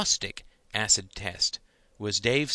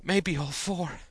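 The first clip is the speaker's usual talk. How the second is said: higher moaning tease; mock moan; 8 semitones higher, slower than usual. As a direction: moan it in parody.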